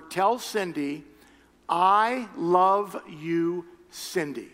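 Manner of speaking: slow, drawn-out loving words; tender message. Retold or imitated. God speaking tenderly to Cindy through the pastor. God's tender word for wife.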